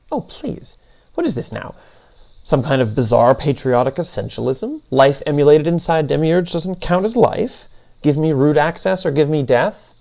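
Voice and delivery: lightly voiced, exasperated machine being; mock the objection with rising incredulous questions; a touch of haughty disbelief; scoffing Demiurge.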